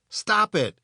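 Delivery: high, exasperated protest; mild yell. A narrator's reading. Frank halts the arguing robots with a mild yell. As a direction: cry it out without full volume. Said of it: "yells Frank".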